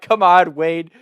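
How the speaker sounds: high, loud, slow teasing through laughs; mocking laughter. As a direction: jeer at him while cracking up. Siblings mocking brother laughing.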